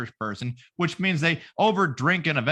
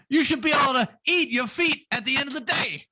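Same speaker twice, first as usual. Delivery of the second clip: mock rapper; 8 semitones higher than usual.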